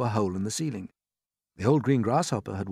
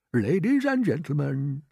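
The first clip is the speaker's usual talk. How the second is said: hiding fear; 6 semitones higher, 5 dB louder than usual. A narrator's reading. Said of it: "keep the fear ... of his voice".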